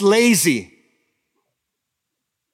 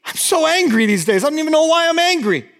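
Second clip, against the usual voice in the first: mock confession of anger; 9 semitones higher, faster than usual. Looking at your heart and like.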